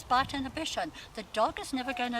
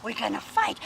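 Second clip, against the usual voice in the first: playful rough-play voice; 4 dB louder than usual. Shown as a demonstration. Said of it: "have a game of bullies".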